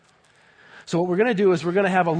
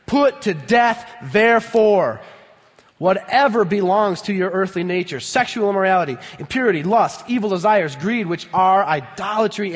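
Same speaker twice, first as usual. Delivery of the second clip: forceful proclamation; 2 semitones higher, 4 dB louder than usual. Acted. Preacher proclaiming the verse.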